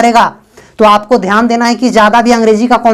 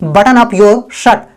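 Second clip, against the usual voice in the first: very slow, word by word; slow, clear dictation; slow model sentence; much slower than usual. Shown as a demonstration. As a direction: spell it out slowly for learners. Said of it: "आप बोल सकते हैं".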